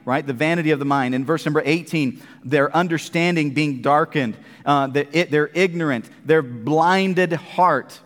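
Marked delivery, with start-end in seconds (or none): none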